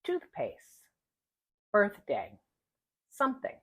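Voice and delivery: toothpaste, birthday, something with an airy th; careful unvoiced th in the middle; exaggerated th practice. Shown as a demonstration. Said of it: "The medial position".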